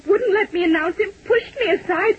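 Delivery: breathless and close to crying as she relives being shoved aside; shaken, near tears. Acted. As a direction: voice catching as she tells of the intruder. Secretary recounts frightening intruder.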